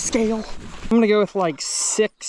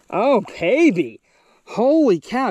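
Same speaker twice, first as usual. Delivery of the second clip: thrilled exclamation; 6 semitones higher, 3 dB louder, slower than usual. Real, not acted. Angler lifting a huge bass for viewers, thrilled. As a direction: savour the moment, then burst out. First sight of the big bass.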